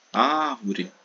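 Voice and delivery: árvore with a long first Á; stressed syllable stretched. Shown as a demonstration. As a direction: drag out the Á that opens árvore. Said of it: "arrastar um pouco mais".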